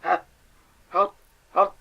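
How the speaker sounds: loud frantic repeats; panicked. Acted. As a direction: stop him in sheer alarm. Caller cuts the host off.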